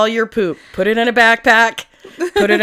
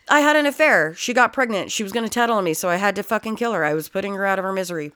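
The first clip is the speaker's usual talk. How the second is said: put-on casual Southern-accented confession; faster than usual. Killer excusing the murder, Southern accent. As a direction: confess as a Southerner, tailing off quicker. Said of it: "I wanna go back to the Southern thing".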